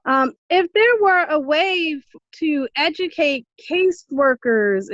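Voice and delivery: muffled, speaking through a face mask; words dampened by a mask; talking through a mask. Real, not acted. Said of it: "I'm sorry, I have a mask on".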